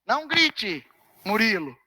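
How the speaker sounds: eleve "Não grite" e baixe "Murilo" depois da vírgula; example sentence demo. Shown as a demonstration. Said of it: "Quase sempre é assim, ó". (exemplo de vocativo: "grite" alto, "Murilo" grave)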